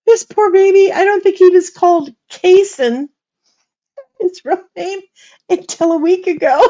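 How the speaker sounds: high, loud squeal through laughter; helpless laughter. Real, not acted. Grandma cracking up at whom the newborn resembled, helpless high-pitched laughter. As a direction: barely get the words out for laughing. Cracking up over baby's old-man looks.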